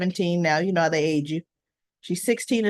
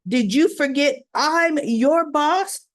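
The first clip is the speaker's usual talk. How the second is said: indignant boss; 4 semitones higher, slower than usual. Retold or imitated. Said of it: "he goes".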